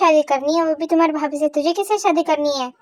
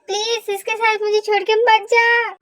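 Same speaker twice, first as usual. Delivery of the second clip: pleading; 3 semitones higher than usual. Acted. Begging a friend not to leave.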